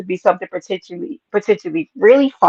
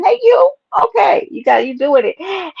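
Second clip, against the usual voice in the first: excited cheer; 10 semitones higher than usual. Real, not acted. Hyping a viewer in chat, a high excited cheer. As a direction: cheer them on at full pitch.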